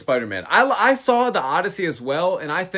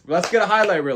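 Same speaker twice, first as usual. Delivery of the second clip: excited; 2 semitones higher, faster than usual. Real, not acted. Hyping up the fight.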